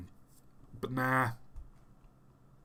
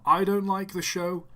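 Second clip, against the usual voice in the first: mock whiny retort; 7 semitones higher, 6 dB louder than usual. Voicing a hater's retort.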